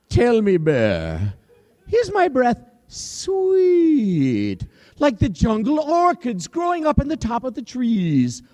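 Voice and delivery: sing-song lion with a teasing rising question; lion's high mock-sweet question; lion king asking. Lion poses riddle again.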